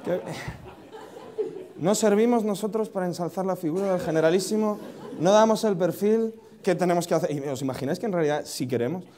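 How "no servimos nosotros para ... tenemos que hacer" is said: higher-pitched feigned offence; put-on wounded complaint; mock indignation. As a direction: protest as if slighted, pitch raised. Mock offence at being overlooked.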